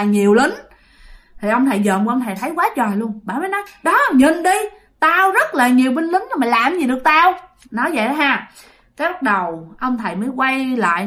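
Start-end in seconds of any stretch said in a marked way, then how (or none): 3.8-7.3 taunting ghost. Acted.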